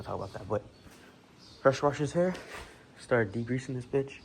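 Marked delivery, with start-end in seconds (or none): 1.6-4.2 winded, puffing between words; out of breath. Real, not acted. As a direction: talk while slightly out of breath. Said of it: "I don't know why I'm out of breath".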